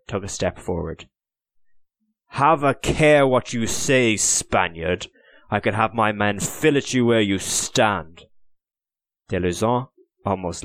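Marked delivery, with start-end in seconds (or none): 2.3-8.2 threatening English officer. Acted. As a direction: lean in on the threat, each word weighed. Richard threatens Deluzan.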